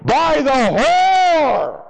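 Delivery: very slow shout, hitting "whore" high and hard; stress on whore. Acted. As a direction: drag out "by the whore" and punch "whore". Climax of the Bible quote.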